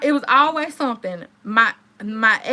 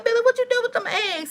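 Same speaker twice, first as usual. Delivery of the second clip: incredulous question; 11 semitones higher, faster than usual. Retold or imitated. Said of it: "I said".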